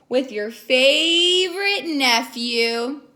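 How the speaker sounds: tender uncle; warm, slow. Acted. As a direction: say it fondly and slowly. Uncle fond.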